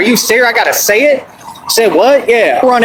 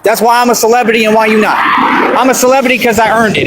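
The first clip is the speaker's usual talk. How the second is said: fast, raised bragging; boastful shout; faster than usual. Real, not acted. Boasting at critics on livestream.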